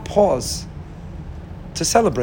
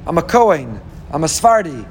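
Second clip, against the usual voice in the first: resigned excuse. Retold or imitated. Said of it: "the next day you say".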